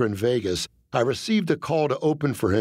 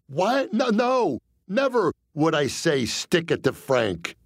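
panicked; 4 semitones higher than usual. Acted. Panicked denial.

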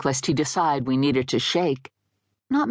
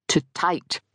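stammering; 3 semitones higher than usual. Acted. Ghost stammers out the word.

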